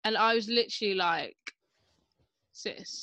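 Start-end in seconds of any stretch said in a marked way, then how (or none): 2.5-3.0 breathless whispered "Sis". Retold or imitated. Reacting to the influencer's video, a soft disbelieving whisper.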